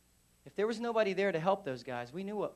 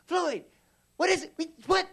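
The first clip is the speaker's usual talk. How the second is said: raised, high sergeant's shout; loud, higher-pitched impatient call; calling across street; 12 semitones higher, 6 dB louder than usual. Retold or imitated. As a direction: holler back to someone across the street. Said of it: "hears him from across the street".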